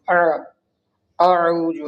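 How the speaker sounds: "اعوذ" begun with a throaty ain instead of hamza; demonstrating "اعوذ" with its first hamza turned into ain; wrong ain for hamza. Shown as a demonstration. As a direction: open "اعوذ" on a pharyngeal ain, as a mistake. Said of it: "بہت سارے لوگ اس کو عین پڑھتے ہیں".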